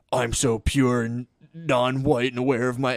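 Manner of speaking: slow, smug, preening parody; lightly lampoon a sanctimonious activist; mocking colleagues who boast about their purity, slowly; mock self-righteous.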